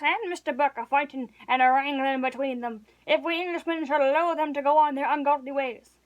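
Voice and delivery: a lightly voiced hearty landlord getting worked up; blustering innkeeper. Innkeeper holding forth to Hempseed, lightly voiced and blustering. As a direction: rant like a patriotic old publican. Innkeeper ranting about politics.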